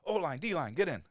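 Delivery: high, loud coach shout; yelling players into the drill; coach calling out. Retold or imitated. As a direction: bark it like a coach at practice.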